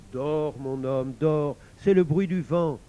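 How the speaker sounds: slow, hushing reassurance; soothing. Acted. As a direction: lull your husband back to sleep. La femme apaise son mari. (voix apaisante, lente)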